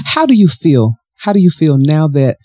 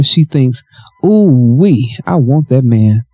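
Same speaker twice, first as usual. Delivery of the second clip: measured audiobook read, a little low; composed storytelling voice; story narration; 3 semitones lower than usual. Acted. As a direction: read the novel aloud, evenly.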